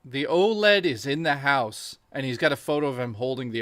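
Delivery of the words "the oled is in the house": mock dramatic reveal, slowing down; hammy announcer quote. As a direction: ham up a grand announcement. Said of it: "he goes".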